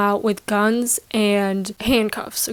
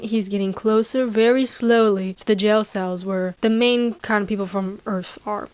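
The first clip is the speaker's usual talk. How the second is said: usual speaking voice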